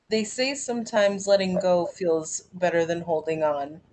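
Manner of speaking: measured spoken-word poem delivery; poem reading. Acted. Reading her poem Pulling Skin to the group, in a measured spoken-word delivery.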